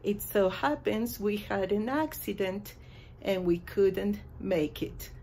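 apology dialogue. Shown as a demonstration. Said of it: "podemos utilizar estas frases".

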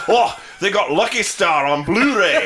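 high, loud geeky delight; mock excitement. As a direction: exclaim like a thrilled fan at a find. Bond excited at anime find.

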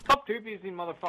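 high, loud frustrated shout; angry yell. Real, not acted. Yelling at an enemy who keeps two-piecing, loud and high.

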